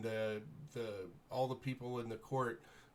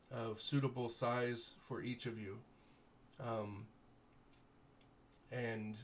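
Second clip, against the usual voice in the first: lightly voiced noble lord, grateful and formal; gracious baron. Baron thanking the heroes for rescuing his daughter, lightly voiced noble. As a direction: thank them with stately warmth.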